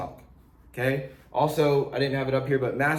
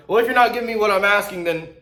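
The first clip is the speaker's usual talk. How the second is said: mock pushy seller; 5 semitones higher, 5 dB louder, faster than usual. Seller pushing back.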